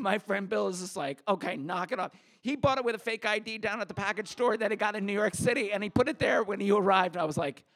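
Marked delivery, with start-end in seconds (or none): 1.3-7.2 blurting confession. Retold or imitated. Bill confesses to the cop.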